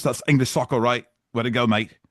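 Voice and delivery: badly faked English accent. Host joking about English soccer, bad English accent. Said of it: "maybe the worst, uh, accent of all time".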